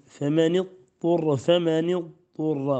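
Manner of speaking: "فمن اضطر" read faman-idturra, nun joined with kasra, slow. Shown as a demonstration. Teacher recites "فمن اضطر" twice slowly to show the kasra. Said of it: "فيكسر النون".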